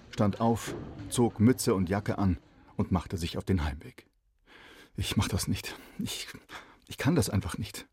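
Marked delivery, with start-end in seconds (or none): 5.0-7.9 put-on a boy mumbling he can't do it; murmured. A narrator's reading. Shy boy mumbling to himself on the way home. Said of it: "murmelte Kalle".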